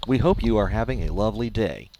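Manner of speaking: automated service announcer voice. Acted. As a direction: read it like a robot phone menu. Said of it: "Trying to sound like an automated service there".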